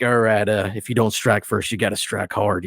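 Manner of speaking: lightly voiced Texas college kid, a hint of swagger; a touch of Ahmed the Cobra Kai fan; Ahmed's voice. Player quotes her character Ahmed for the host, lightly voiced. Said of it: "that's the character, uh, Ahmed".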